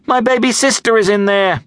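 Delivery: high-pitched, distressed appeal; groaning plea. A narrator's reading. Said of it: "she groaned".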